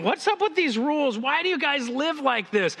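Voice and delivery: high-pitched, acted exasperation; baffled challenge. Visitor questioning Christians about their rules, acted bafflement. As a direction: question it like a bewildered outsider.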